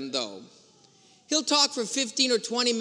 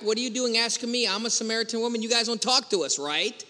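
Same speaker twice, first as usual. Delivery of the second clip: quick, slightly raised mock retort; faster than usual. Samaritan woman questions a Jewish man's request, mock retort. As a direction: fire back in one fast run, lightly imitating her. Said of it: "So she retorts back".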